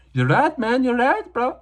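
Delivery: high put-on voice of a fighter; a dopey agreeable bro voice; fighter's voice. Diego answering his corner in a silly high voice. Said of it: "I don't know how Diego sounds".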